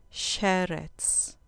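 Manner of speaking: "Sheretz" said SHE-retz, stress on the first syllable. Shown as a demonstration. Teacher repeats "Sheretz" for students, stress on SHE. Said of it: "con acento en la penúltima sílaba".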